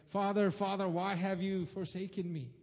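a desperate call to the Father; anguished cry. Retold or imitated. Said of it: "he cries out".

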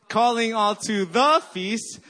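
"the" punched loud and high, slow phrase; stress on THE. Shown as a demonstration. Pastor leading church vision chant, stress on "the". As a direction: hit the word "the". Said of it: "you emphasize every syllable".

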